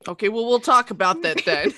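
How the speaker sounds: mild let-down dad warning; disappointed parent. Acted. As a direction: sigh it like a tired father. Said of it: "disappointed dad tone".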